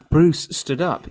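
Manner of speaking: loud, giggly reading, cracking up mid-word; real laughter breaking in; laughing through it. Real, not acted. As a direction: keep losing it to laughter. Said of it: "I can't".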